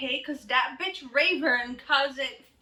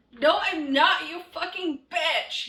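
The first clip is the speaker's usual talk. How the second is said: loud, higher snarl of a reply; angry shout; 6 semitones higher, 5 dB louder than usual. Acted. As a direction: spit it out as an insult. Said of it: "he shouted angrily".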